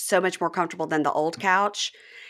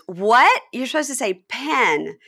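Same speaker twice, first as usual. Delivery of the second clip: higher, incredulous mock objection; acted-out disbelief, pitched up; retold sister's correction; 5 semitones higher, slower than usual. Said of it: "the other sister goes".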